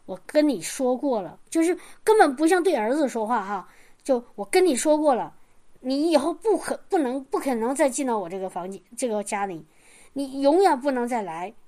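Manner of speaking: mock stern rejection of her son; fierce mother. Mother refusing her son at the door, a mock-harsh scolding. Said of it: "眼神儿非常那个凶狠的说".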